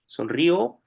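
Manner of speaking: sonrió stressed on the end, rising; stress on the final ó. Shown as a demonstration. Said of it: "O sea, ahí sí".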